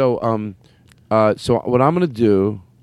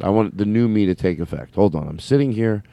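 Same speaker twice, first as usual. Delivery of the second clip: deliberately calm, lower voice; 3 semitones lower than usual. Real, not acted. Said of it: "I wanna be not revving high".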